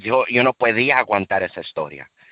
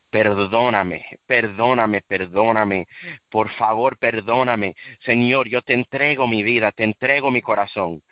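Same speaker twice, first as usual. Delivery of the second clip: tearful prayer; 3 semitones lower than usual. Retold or imitated. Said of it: "empecé a llorar más".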